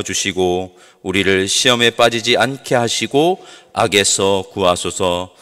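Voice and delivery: slow, even congregational recitation; solemn prayer, slow and steady; Lord's Prayer recitation. Real, not acted. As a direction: recite the prayer in unhurried, level phrases, drawing out the amen.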